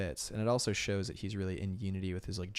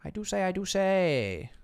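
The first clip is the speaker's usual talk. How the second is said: very posh British; 11 semitones higher, 8 dB louder than usual. Pretend. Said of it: "Maybe not quite that posh".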